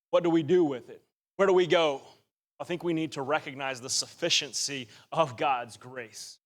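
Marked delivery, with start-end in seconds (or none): 2.6-6.4 said low and quiet, lines dropped; hushed, inward delivery of the key phrase; soft first statement. Shown as a demonstration. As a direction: quietly lay down "the sufficiency of God's grace". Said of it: "You hear that?".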